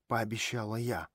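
plain reading voice

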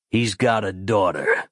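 a lightly voiced lawman betraying him; sly sheriff. A narrator's reading. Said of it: "said the sheriff".

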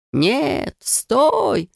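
high urgent cry to stop; a mildly voiced shout; elves shouting. A narrator's reading. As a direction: call out to halt her. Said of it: "закричали эльфы".

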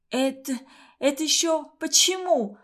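sputtering water, hoarse; spluttering out seawater while asking; отфыркиваясь. A narrator's reading. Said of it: "отфыркиваясь, просипела Юлька". (сипло, отфыркиваясь)

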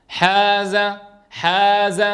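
حاز، with the long aa clearly drawn out for two beats; madd natural. Shown as a demonstration. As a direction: hold the alif in حاز، as a full long vowel. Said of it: "إن لم نعطيها مدا".

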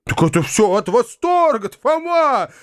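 climbing high to an excited cry; overflowing with happiness; joyful cry. Acted. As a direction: uncle crying out to Foma, high and joyful. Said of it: "вскричал дядя".

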